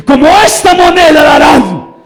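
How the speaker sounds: shouted high and loud as God; booming voice of God. Acted. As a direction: proclaim it like God commanding. Cita de Dios gritada. (voz de Dios tronando, gritada y aguda)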